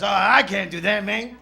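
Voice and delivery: rough attempt at Mexican-accented English; badly faked Mexican accent. Front-row guy declining to imitate, badly faked Mexican accent. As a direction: put on a poor Mexican accent. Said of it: "a shit attempt at your accent".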